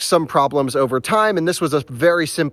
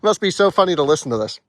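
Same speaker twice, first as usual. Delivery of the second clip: laughing at hiccups. Real, not acted. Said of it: "I have the hiccups".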